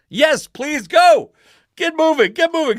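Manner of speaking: hammed-up panic, begging the driver to hurry; frantic urging.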